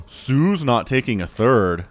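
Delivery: slow, stunned repeat; disbelief. Real, not acted. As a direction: say it slowly, amazed.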